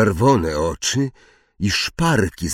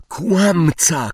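high defiant cry; shout; 9 semitones higher than usual. A narrator's reading. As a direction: hurl it back at him. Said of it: "krzyknął nagle Harry". (wysoki, buntowniczy okrzyk)

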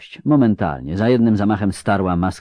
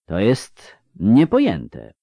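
slow wonder; slower than usual. Acted. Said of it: "szepnął".

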